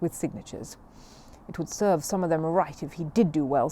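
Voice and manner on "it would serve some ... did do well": darkly. Acted. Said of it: "said Missus Bird darkly".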